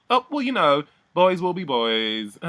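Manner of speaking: high, drawn-out laugh-it-off voice; airy mock housemate. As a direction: imitate her brushing it off with a laugh. Retold housemate laughing off incident.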